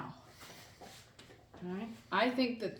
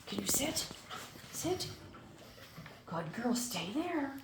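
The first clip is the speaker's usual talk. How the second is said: firm dog commands; 5 semitones higher, 7 dB quieter, slower than usual. Real, not acted.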